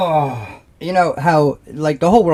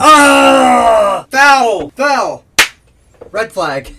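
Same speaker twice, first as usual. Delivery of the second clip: higher, louder shouted foul; mock foul call; 6 semitones higher, 5 dB louder, much slower than usual. Joking about blood, shouting like a referee. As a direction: call it like a ref on a bad play.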